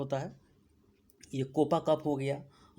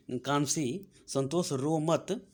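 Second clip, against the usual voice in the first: slow mnemonic; slower than usual. Shown as a demonstration. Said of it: "इतना तो आपको clear हो गया होगा".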